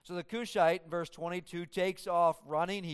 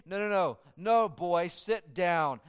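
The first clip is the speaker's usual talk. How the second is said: stern dismissal; slower than usual. Retold or imitated. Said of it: "what I pictured Joab saying to Ahimaaz".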